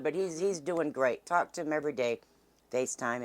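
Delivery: ordinary delivery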